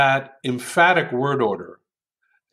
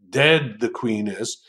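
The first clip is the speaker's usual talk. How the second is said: mock Yoda; 2 semitones lower than usual. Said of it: "Yoda might have declared".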